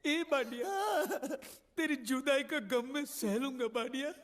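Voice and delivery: tearful farewell. Acted.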